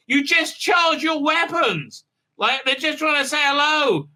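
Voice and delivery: high, loud hammed-up screaming panic; mock panic. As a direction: yell it like the crew is running for their lives. Panicked crew fleeing the creature.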